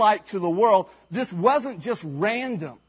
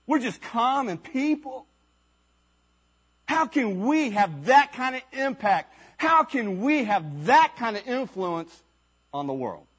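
a hint of stunned disbelief, half to themselves; disciples mumbling; 2 semitones higher than usual. Disciples whispering to each other in disbelief. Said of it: "the disciples mumbling to each other".

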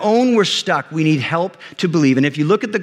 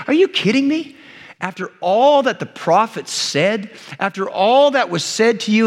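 higher-pitched, incredulous mock scolding; 4 semitones higher than usual. Jesus chiding followers who doubt, acted scolding. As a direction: chide them in mild, acted disbelief. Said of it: "this tone of like he's scolding".

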